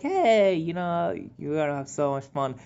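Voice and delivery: put-on pep up a nervous kid; cheery encouragement. To the classmate stuck with her, cheery encouragement. Cheering up partner before crying.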